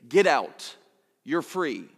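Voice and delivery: lightly voiced executioner announcing release; deep booming voice. Executioner freeing the prisoner in his cell, lightly booming. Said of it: "you hear his deep booming voice say".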